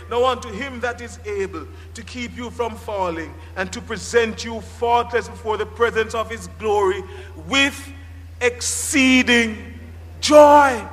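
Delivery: benediction read, swelling at the end; scripture reading. Shown as a demonstration.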